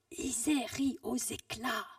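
like a shout resounding in an empty room; drawn-out distant repeat of a cry; echo. Acted. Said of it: "Alors ça fait comme un écho".

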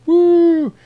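high, loud whoop; mock cheer. Sailors celebrating on the deck, high loud whoop.

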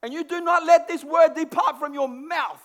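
loud, forceful proclamation; declaring scripture with full force; proclaiming God's command. Acted. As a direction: boom it out like a divine order. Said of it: "that's exactly how he says it".

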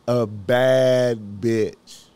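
"A bad bitch" very slow and loud, each word weighted; slow emphatic. Shown as a demonstration. Telling viewers about Angel, slow and emphatic. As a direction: stretch out "A bad bitch" with force. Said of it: "I wanna illustrate this".

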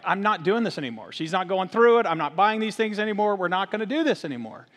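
mildly exasperated dad putting his foot down; mock-weary parental ultimatum; fed-up dad. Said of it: "finally I got to a point as a dad".

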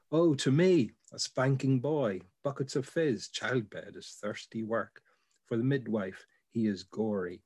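measured, unhurried recitation with pauses between images; poem reading. Acted. Reading the bicycle poem aloud for a colleague, in a measured recital. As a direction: read it like a poem, letting each phrase land.

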